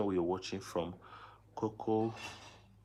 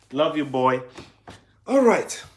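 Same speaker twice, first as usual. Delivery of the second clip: higher, louder fond goodbye; louder fond goodbye to his son; affectionate; 6 semitones higher, 14 dB louder than usual. Real, not acted. Farewell to son.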